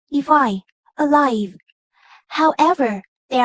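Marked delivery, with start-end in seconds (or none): 0.1-1.6 "divine, alive", each stressed on the second syllable. Shown as a demonstration. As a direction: lean on VINE in "divine", LIVE in "alive". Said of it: "The second syllable is strong".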